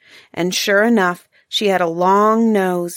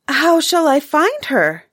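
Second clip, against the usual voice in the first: near tears; 7 semitones higher, 3 dB louder than usual. Acted. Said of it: "nearly ready to cry".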